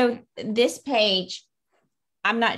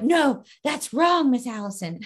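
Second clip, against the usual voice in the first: put-on kids correcting her; 5 semitones higher than usual. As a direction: whine it like a kid who caught a mistake. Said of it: "They're like".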